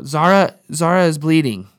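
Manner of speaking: calling the name out loud and high; panicked kid's yell; retold alarmed yell. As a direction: shout the sister's name in alarm. Son reports sister bleeding.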